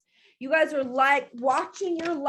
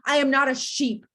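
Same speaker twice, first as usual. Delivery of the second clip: affirmation; 3 semitones lower than usual. Retold or imitated. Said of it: "I was like".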